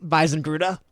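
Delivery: high, slow, emphatic lawyer voice; lawyer cross-examining. Acted. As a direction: press the witness slowly and loudly. Game master voices lawyer Mirtlatz questioning.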